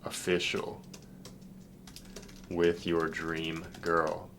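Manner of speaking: slow, soft, drawn-out dictation as he types; typing aloud. Real, not acted. Coach typing a proud reply to client, slow soft dictation. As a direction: murmur the words as you type them out slowly.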